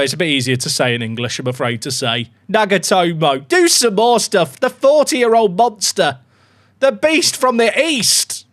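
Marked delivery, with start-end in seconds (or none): 2.5-8.4 loud, slow, drawn-out billing; hype commentary. Real, not acted. Streamer hyping his veteran right back, commentator style. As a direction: announce him like a legend, high and stretched.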